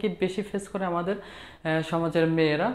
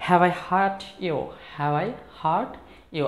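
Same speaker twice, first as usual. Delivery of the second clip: slow model phrase; much slower than usual. Shown as a demonstration. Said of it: "তো আমরা কি বলবো".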